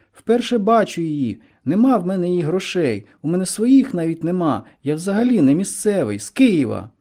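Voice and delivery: put-on mildly indignant boy's denial; agitated protest. A narrator's reading. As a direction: plead your innocence, pitch lifted. Accused boy protests his innocence.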